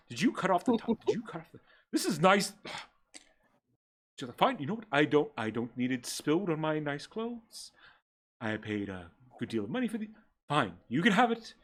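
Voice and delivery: breathy vintage purr. Acted. Sebastian fighting over the bottle.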